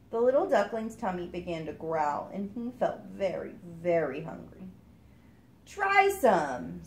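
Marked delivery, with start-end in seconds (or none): 5.7-6.8 louder call. Acted. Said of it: "called the kingfisher".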